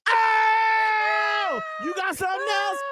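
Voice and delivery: high shrieking caller voice. Acted. Caller bragging in radio game.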